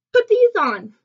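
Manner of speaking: high, loud order; urgent instruction. A narrator's reading. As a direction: call it out before they skate off. Character urgently instructing the skater.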